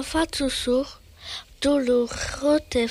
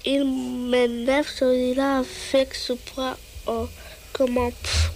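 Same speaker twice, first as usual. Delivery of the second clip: grumbling. Acted. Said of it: "en grommelant".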